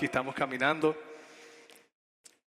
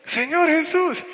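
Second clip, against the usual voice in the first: very high, shouted mock command; bien bravo; 14 semitones higher, 8 dB louder than usual. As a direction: order him to pray, acting the fierce youngster. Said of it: "bien bravo". (orden gritada y brava, imitando al jovencito)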